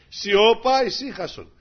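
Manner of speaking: loud high Σιώπα, then calm ησύχασον; commanding the sea. Acted. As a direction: rebuke the storm. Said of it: "το βλέπουνε συνέχεια". (προσταχτικά, δυνατό Σιώπα)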